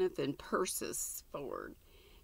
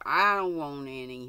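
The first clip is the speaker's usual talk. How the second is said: sulky; 4 dB louder than usual. Acted. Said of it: "he said sulkily".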